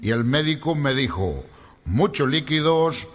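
put-on low, deliberate Spanish accent; slow explanation in a mock Galician accent; Galician Spaniard. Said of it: "Le digo, "Gallego". (acento gallego, grave y pausado)

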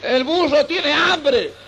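words squeezed out while laughing, slow; can't hold back the laugh mid-line; laughing through the words. Real, not acted. Telling apostle's plea to Jesus, laughing.

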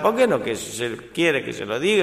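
urgent acted demand, pitch climbing; desperate. Woman in confessional questioning the priest, desperate. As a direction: plead with mounting desperation.

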